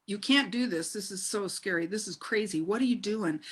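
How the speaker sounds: whisper-like doubts of a scared mind; fearful inner voice. Retold or imitated. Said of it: "the surface voice in my head on the ropes course was saying".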